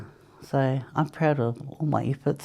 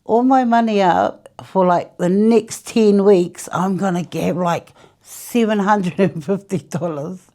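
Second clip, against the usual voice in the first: excited plan; 3 semitones higher, 6 dB louder than usual. Retold or imitated. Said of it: "So I thought".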